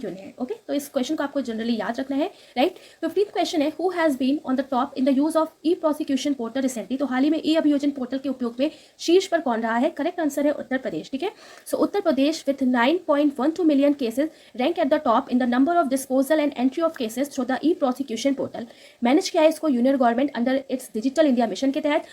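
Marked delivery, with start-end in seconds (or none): 3.7-7.0 very slow, careful reading of English text; slow news read. Acted. Teacher reading the English news line to students, slow and careful. 11.8-18.6 very slow, careful reading of English text; slow news read. Acted. Teacher reading the English news line to students, slow and careful.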